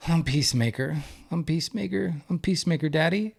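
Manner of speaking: a father lightly mimicking his small boy's sweet reply; imitating his little son. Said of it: "he'll say".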